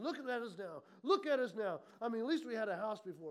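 grumbling, slightly low; murmured complaint. Acted. Israelites grumble about life since Moses, murmured complaint. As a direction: complain as if muttering about your lot. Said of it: "They murmur".

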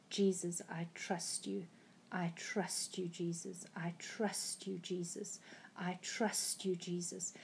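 hushed, breathy pleading whisper to Jesus; whispered prayer. Retold or imitated. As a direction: whisper it as a last desperate prayer. Retold desperate prayer in the dream.

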